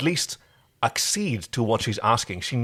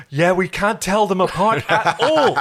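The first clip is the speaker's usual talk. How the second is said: laughing through the line, louder; 6 semitones higher, 3 dB louder than usual. Real, not acted. Co-host joking about the lookalike actors, laughing. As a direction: chuckle while joking.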